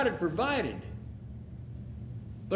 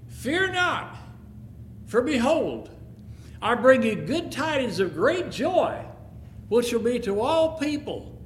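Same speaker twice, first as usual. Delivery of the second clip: raised, solemn announcing voice; angel's proclamation; 3 semitones higher than usual. Acted. Angel telling the frightened shepherds, solemn proclamation. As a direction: proclaim it like a heavenly messenger.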